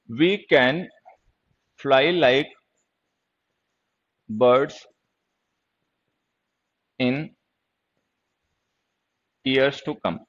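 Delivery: word by word with long pauses; drawn-out dictation, halting between words; slow dictation. Real, not acted. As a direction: say it piecemeal, as if writing it out. Writing the sentence while saying it.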